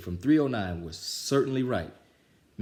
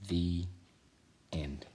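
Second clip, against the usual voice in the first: soft whisper; closing the story in a whisper; whispered end; 2 semitones lower, 4 dB quieter than usual. Real, not acted. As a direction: breathe the last word. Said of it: "whispered ending".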